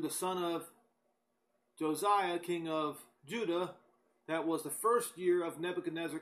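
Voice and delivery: brisk, emphatic Bible reading aloud; declaimed scripture, pushing through each verse. Acted. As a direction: read the verses out briskly to a congregation.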